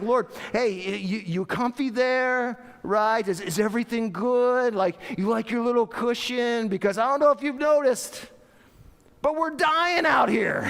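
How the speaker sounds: high, loud, mock-polite complaint building to a shout; sarcastic disciples at the end of their rope; exasperated sarcastic plea. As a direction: needle him sweetly, then burst out in panic. Acts out frightened disciples pleading with Jesus.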